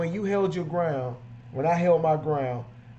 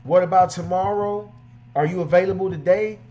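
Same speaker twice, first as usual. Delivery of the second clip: higher and louder, keen questions; eager customer; 5 semitones higher, 4 dB louder than usual. Retold or imitated. Keen customer pushing to book the detailer now. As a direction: press to book right away. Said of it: "if that person doesn't say".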